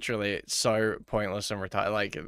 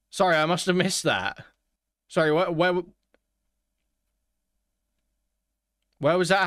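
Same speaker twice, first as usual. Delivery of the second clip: sarcasm; 6 semitones higher than usual. Pretend. Sarcastic jab at the streamer.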